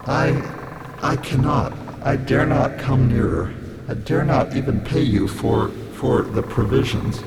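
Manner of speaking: put-on halting old-fashioned stranger's voice; hesitant refusal, broken by pauses; fearful, wretched castaway. A narrator's reading. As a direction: falter with dread and apology.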